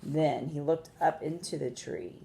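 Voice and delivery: measured storytelling with long pauses; expressive picture-book narration; story read to children. A narrator's reading. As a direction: read aloud to young listeners, stressing key words.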